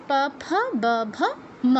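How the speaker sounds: প ফ ব ভ ম in an even recitation; labial letter drill. Shown as a demonstration. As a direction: use both lips for প ফ ব ভ ম. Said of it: "আমি আবার করে দিচ্ছি". (প বর্গ, দুই ঠোঁটে আবৃত্তি)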